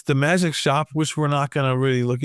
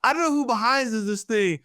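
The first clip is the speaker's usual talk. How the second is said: higher, slowing, offended; indignant Zot; 6 semitones higher than usual. Retold or imitated. Zot turning to the readers, indignant. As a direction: scold the readers.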